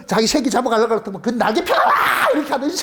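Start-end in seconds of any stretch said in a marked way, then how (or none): 1.6-1.9 long mock shriek with wings spread; drawn-out comic yell; imitated sparrow screech. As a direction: cry out like a startled sparrow. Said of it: "자기가 소리를 질렀어".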